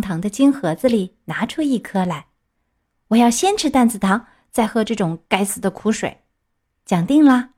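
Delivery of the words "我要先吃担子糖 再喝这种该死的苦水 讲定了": lightly voiced puppet striking a bargain; a hint of a wilful child haggling. Puppet bargains with the fairy for candy first, lightly childlike.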